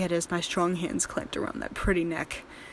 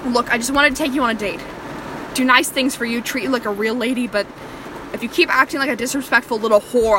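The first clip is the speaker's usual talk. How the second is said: exasperated; 3 semitones higher, 6 dB louder than usual. Acted. Captor's rising complaint.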